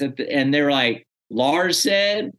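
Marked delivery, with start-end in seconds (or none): 1.3-2.3 slow, drawn-out doubting question; incredulous. Retold or imitated. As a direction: stretch it out in disbelief. Friends doubting the claim.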